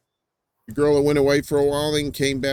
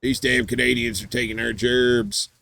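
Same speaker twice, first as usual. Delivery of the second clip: mock redneck outrage. Joking to co-host about Canadians taking work, mock outrage. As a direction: play an indignant yokel, stretching the words.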